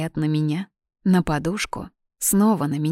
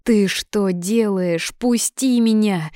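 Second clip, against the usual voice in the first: slow, higher protesting squeak; lightly voiced squeak; 4 semitones higher, 4 dB louder, slower than usual. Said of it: "пискнула я". (тонко пискнуть, протестуя)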